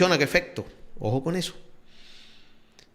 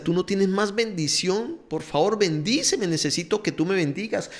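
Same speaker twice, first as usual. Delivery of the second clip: mildly pleading, pitch lifted; lightly acted begging, without tears; retold pleading; 5 semitones higher than usual. Esau begs his father for a blessing, mildly pleading. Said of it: "le rogaba y le lloraba".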